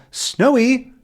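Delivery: high calling out for his dog; hammed-up call for a lost dog. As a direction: call Snowy from across the street. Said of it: "he calls out to him".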